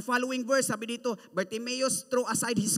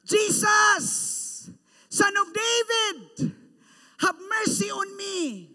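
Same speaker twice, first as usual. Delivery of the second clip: loud high pleading cry; shout; 8 semitones higher, 6 dB louder, slower than usual. Acted. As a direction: call out to Jesus over the crowd. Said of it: "he shout".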